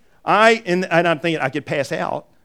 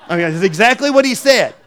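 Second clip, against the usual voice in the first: laughing; 5 semitones higher, 6 dB louder than usual. Real, not acted. Laughing at the quote.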